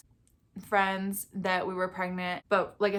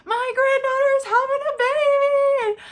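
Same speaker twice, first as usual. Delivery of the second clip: very high, loud joyful proclaiming; proud announcement; 9 dB louder than usual. Retold or imitated. Grandpa telling restaurant staff, joyful and loud. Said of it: "telling the servers".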